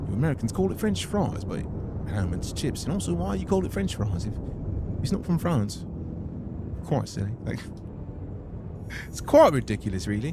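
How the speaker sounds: a light put-on British accent; a mock Brit teasing Americans, partly laughing. Streamer plays a Brit mocking the name French fries, lightly accented. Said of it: "An American trying to sound British".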